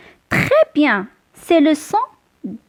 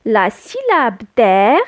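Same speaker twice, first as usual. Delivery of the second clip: slow syllable demo; 4 semitones lower than usual. Shown as a demonstration.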